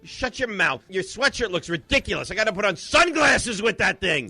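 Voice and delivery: high-pitched exasperated outburst; worked-up, high-voiced griping; irritated rant. Real, not acted. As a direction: snap back at a needling colleague, pitch up high. Host ranting back at co-hosts.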